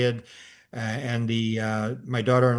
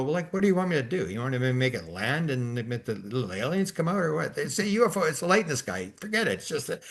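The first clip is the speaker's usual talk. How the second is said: pitched-up, incredulous brush-off; exasperated dismissal; 3 semitones higher than usual. Retold or imitated. Grandpa brushes off family's UFO excitement, exasperated.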